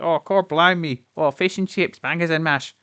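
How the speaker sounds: hammed-up Cockney, high and slow; a lightly put-on London accent, drawn out; American's idea of an English accent; mock English accent. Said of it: "do a, an English accent".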